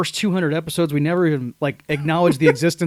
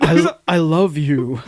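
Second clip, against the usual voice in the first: Nordberg; 3 dB louder, slower than usual. Retold or imitated. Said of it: "isn't speaking in full sentences".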